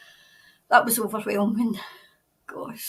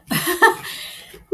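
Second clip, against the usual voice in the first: breathy laugh through tears; a laugh after crying; teary laugh; 7 semitones higher than usual. Real, not acted. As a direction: let out a shaky relieved laugh. Emotional release after crying.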